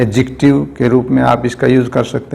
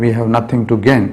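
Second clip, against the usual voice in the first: slow dictation; much slower than usual. Shown as a demonstration. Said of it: "इसको अगर हम passive में ले जाते हैं".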